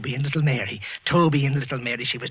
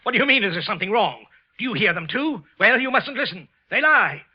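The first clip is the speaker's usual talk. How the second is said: hysterical screaming; 8 semitones higher, 6 dB louder than usual. Acted. Wilson screams at clerk.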